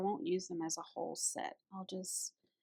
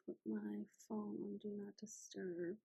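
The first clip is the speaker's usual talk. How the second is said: whispering; 6 dB quieter than usual. Real, not acted. Muttered aside while setting phone.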